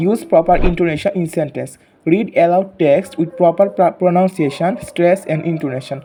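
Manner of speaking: very slow textbook reading, word by word; reading aloud. Acted. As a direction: spell the English out slowly for young pupils. Reads objectives slowly to class. (খুব ধীরে ধীরে পাঠ পড়া)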